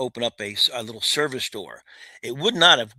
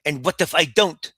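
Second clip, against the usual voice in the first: defiant; 4 semitones higher, 5 dB louder than usual. Retold or imitated. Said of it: "he gives me this attitude".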